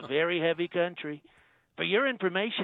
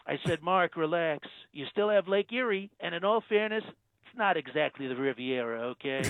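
Trump impression. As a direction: play the president, smug and self-assured. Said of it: "Donald Trump".

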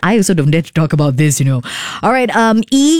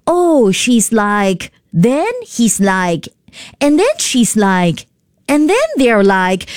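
mocking "like" talk; 3 semitones higher, slower than usual. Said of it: "they can say".

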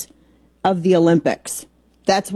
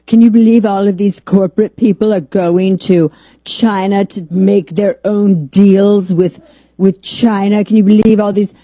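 mock indignation; 4 dB louder than usual. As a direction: imitate aghast commentators with sarcastic emphasis. Imitates progressive media's indignation.

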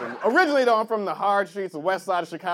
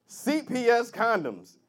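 mock ad slogan; 2 semitones lower, 4 dB quieter than usual. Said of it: "The motto could be".

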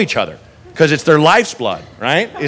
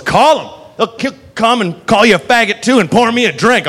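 higher-pitched, defiant taunt; mock belligerent drunk; 6 semitones higher than usual. Drunk woman daring the bartender to call cops, mock belligerent. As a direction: imitate a combative drunk woman. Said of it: "She's screaming".

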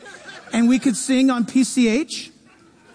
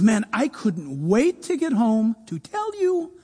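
heartfelt greeting; 3 semitones lower, 3 dB quieter than usual. Retold or imitated. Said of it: "somebody comes home and says".

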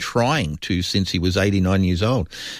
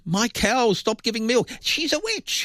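high, squeaky mock accusation; witch-hunt accuser; 13 semitones higher than usual. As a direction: play an aggrieved villager in a silly high voice. Mimicking Salem accusers.

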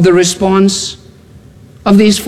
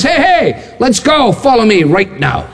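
breezy come-along summons; calling out; 3 semitones higher than usual. Acted. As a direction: hail someone from down the road. Imagined chap calling out in the street.

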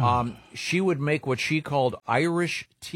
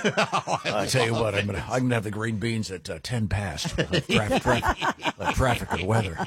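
imitating the morning guy. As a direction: parody the old DJ at dinner. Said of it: "He talked like this all the time".

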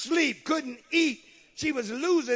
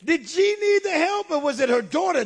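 preaching burst; 8 semitones higher, 8 dB louder than usual. Acted.

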